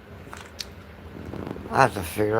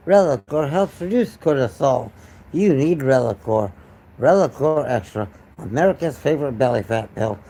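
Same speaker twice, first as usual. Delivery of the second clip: commercial announcer. Pretend. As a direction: sell it like a pitchman. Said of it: "I'm doing a Relicore commercial".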